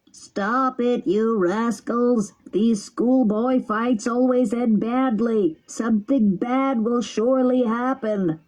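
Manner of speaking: slow, odd, blaring crab voice with a cold; old crab scolding the boys, slow and stuffed-up; trumpet with a cold. Acted. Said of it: "in a voice like a trumpet with a cold".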